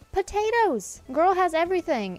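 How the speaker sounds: high, loud outraged cry; outraged shout. Real, not acted. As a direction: yell it in disbelief. Outraged rant at villager.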